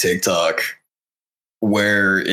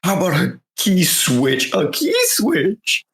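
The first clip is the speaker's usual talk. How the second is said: higher, rising mock meltdown, peaking on the last key switch; mock rapper losing it; 6 semitones higher than usual. Retelling a TikTok parody of a rapper losing his mind, high pitch. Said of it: "another rapper already responded"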